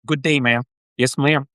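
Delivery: badly faked American South accent; amateur attempt at a Southern accent. Shown as a demonstration. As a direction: play a polite Southerner, accent only lightly put on. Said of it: "I sound like I'm from the South".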